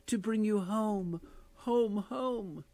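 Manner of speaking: put-on high, light child voice, gleeful; a small girl coming to fetch her brother; little girl's voice. Little Fan telling her brother she has come for him, high and gleeful. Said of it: "said the child".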